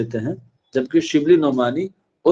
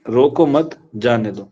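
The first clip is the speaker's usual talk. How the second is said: روکو مت as one phrase, then جانے دو; pause after مت; 2 semitones lower than usual. Shown as a demonstration. Teacher repeating the comma example, pause after مت. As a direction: keep مت tied to روکو, let جانے دو fall. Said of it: "میں نے یہاں پہ ایک کوما لگا دیا".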